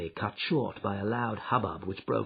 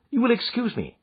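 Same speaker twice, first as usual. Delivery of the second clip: bland; 13 semitones higher, 4 dB louder than usual. Acted. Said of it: "said Holmes blandly".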